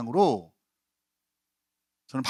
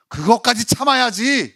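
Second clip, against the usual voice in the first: loud, higher, firm command; firm rebuke; 8 semitones higher, 7 dB louder than usual. Pretend. Jesus telling Peter to endure, firm and loud. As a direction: lay down the rule with no give. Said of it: "단호하게 말씀하시는 거예요".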